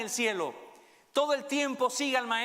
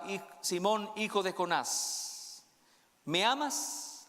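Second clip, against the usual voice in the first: slow, gentle questioning; tender Jesus; much slower than usual. Acted. Jesus gently asks Peter if he loves him, tender and slow.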